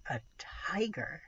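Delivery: breathless whisper. A narrator's reading. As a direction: whisper it in awe. Awed realisation of the tiger.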